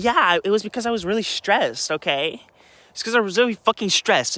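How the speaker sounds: high mocking whine imitating her; mocking sister. Mocking his sister's excuse in a high whiny voice. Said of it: "And she was like".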